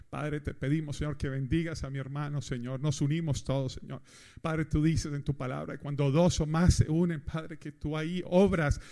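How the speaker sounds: mock group prayer. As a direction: pray over the brother, building to a plea. Oración recreada en el grupo. (oración en voz baja que crece al final)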